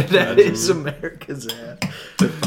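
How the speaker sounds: laughing. Real, not acted. Laughing repeat of joke.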